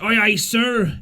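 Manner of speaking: lightly voiced cheery seaman; a brisk, cheerful aye aye; cheery sailor's aye aye. A narrator's reading. Willing sailor answering the captain cheerfully. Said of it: "with the cheeriest".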